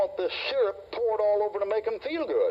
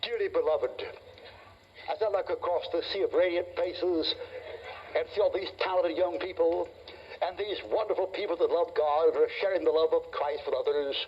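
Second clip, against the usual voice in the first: mock sweet preacher. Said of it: "if I got up there and I said".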